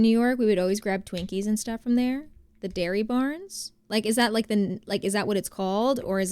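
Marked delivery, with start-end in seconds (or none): 2.6-3.7 slow, rising, puzzled "Dairy Barns"; puzzled echo. Real, not acted. Echoing a viewer's store name, slow and puzzled. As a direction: repeat the name back slowly, baffled.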